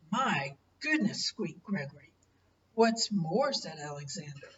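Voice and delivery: gentle storybook reading voice; story narration. Acted. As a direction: read it like a bedtime picture book. Grandparent reads picture book aloud.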